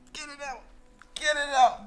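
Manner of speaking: high, loud command; yelling at the dog to drop it; urgent shout. Real, not acted. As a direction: order the dog sharply. Dog has something in mouth.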